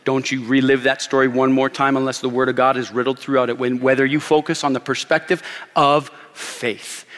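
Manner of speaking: stern, steady warning in a retold grandma's words; very serious. Grandma pulls him aside to correct him, very serious. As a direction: warn firmly, without raising the voice. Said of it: "very seriously looks me in the face".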